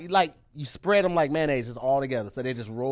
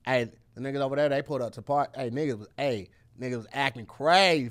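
lower, easy Saint Louis accent; 4 semitones lower, 4 dB quieter than usual. Shown as a demonstration. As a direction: give it Saint Louis talk, pitched down. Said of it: "Okay, you give me Saint Louis".

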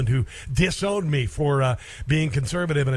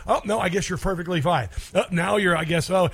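mocking; 3 semitones higher than usual. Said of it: "I made fun of him".

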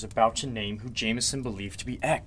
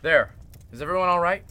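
raised voice; 5 semitones higher than usual. Acted. Lights back on.

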